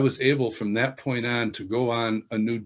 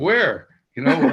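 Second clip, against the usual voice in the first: an eager, higher "Where?" at a pitch jump; mock surprise; 10 semitones higher, 6 dB louder, slower than usual. To friends claiming angels, a mock eager where. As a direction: snap round looking for the angel. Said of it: "it's like".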